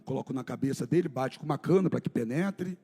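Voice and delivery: low, soft, grave retelling; hushed story narration. A narrator's reading. Pastor narrating the scourging of Jesus, low and hushed. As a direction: let the horror sink in quietly.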